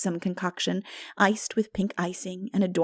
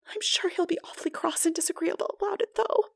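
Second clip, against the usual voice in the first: higher, softer, a mild moan; 11 semitones higher, 5 dB quieter than usual. Acted. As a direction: dread the visit ahead. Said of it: "moaned Anne".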